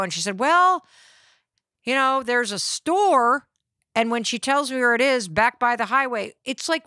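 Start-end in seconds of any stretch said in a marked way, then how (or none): 0.4-3.5 high, loud start, then slowed; a hint of a hesitant park ranger; ranger's drawn-out answer.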